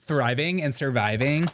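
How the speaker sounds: lightly mimicked Valley girl lilt; mock Valley girl. Host echoing director's words, mock Valley girl. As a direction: echo it with a Valley girl swing. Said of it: "talking like that".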